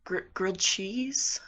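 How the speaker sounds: shy voice asking for what isn't on the menu; timid whisper. Acted. Starstruck customer whispers his order to the waitress.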